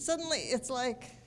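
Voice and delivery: ordinary talk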